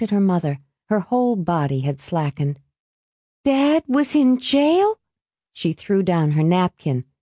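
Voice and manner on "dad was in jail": slow, high-pitched disbelief; shocked question. A narrator's reading. Alice learns about her father, shocked. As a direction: draw it out in disbelief.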